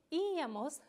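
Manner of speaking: "íamos" with the opening í held and stressed. Shown as a demonstration. Teacher showing the nosotros ending, stress on the í of "íamos". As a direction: lean on the first vowel of "íamos". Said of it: "la i lleva acento".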